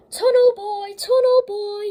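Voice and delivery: high, loud sing-song taunt; teasing taunt. A narrator's reading. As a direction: tease him like a schoolyard bully. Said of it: "he'd often say".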